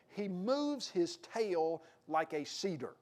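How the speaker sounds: "He moves his tail like a cedar" drawn out slowly; slow it down as God describing the beast; slow, majestic "He moves his tail like a cedar"; slow, weighty reading. Acted. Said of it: "And he says".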